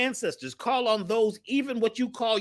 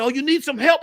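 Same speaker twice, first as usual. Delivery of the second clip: lightly voiced helpers, higher and louder; mock offer of late help; eager helpers; 6 semitones higher, 5 dB louder than usual. People come running to the drummer, mock eager. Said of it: "the people come running".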